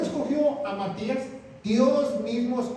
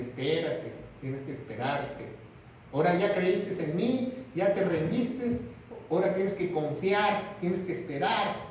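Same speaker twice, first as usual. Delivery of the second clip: calm reassurance; 3 semitones lower than usual. Acted. God tells Pablo to wait.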